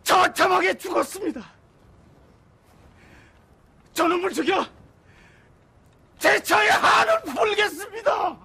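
anguished angry shout. Acted. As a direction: shout it out through grief. Widower vowing revenge for his wife.

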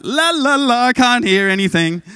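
sing-song la la, plugging ears; playful la la la. Retold or imitated. Ignoring the girl's request, playful sing-song la la. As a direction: pretend you can't hear, teasing. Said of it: "I'm like".

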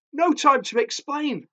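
high, hurried dismissal; urgent and high, as if panting; high-pitched, flustered urgency. A narrator's reading. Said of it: "she panted".

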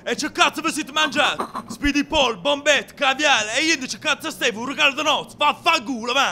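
padre arrabbiato. Acted. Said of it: "non gridare".

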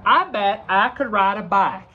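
lightly voiced Southern duck; Southern accent. Shown as a demonstration. Duck from the South, light Southern accent. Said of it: "he talks like this".

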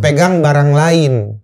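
slow, measured order; clear instruction. Retold or imitated. Survivor redirecting a panicking man, slow clear instruction. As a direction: give the order very deliberately. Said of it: "instruksi jelas tuh".

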